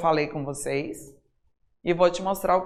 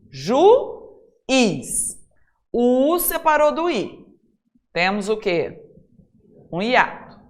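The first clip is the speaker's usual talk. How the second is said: normal talking voice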